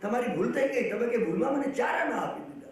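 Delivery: retold beggar calling out after the giver; mock shouting beggar calling the man back. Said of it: "એવો પેલો બૂમ પાડતો હતો".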